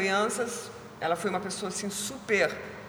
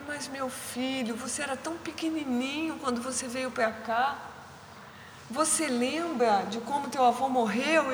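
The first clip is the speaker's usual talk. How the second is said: gentle soothing; 5 semitones higher, 4 dB quieter than usual. Retold or imitated. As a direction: hush a crying child gently. Carer soothing crying child at night.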